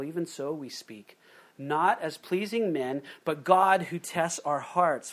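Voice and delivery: scripture reading. Acted. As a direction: read the verses deliberately to the congregation. Reads scripture aloud.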